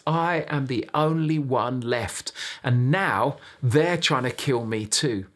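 mildly whiny Elijah, acted out; whining. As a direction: complain to God with a touch of self-pity. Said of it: "And Elijah starts whining".

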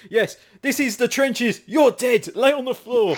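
lightly hammed-up trench commander; commanding teacher. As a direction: order them about in play. Imagines teacher commanding in the bedroom.

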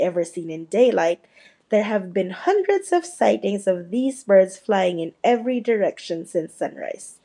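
brisk TV newscaster delivery; news read. Acted. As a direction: read it like the evening news anchor.

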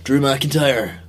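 Drew McIntyre impression. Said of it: "That's actually very good".

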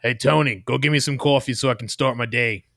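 a loud, bossy Boston detective; detective boss voice. Acted. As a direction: order the coffee like a gruff cop. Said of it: "like a grimy old detective".

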